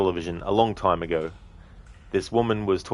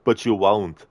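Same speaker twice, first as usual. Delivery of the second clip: Arnie impression; slower than usual. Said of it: "Arnie movie scene impression".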